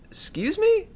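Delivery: high whispered disbelief; startled whisper. A narrator's reading. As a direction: gasp it out in a whisper. Leo startled question.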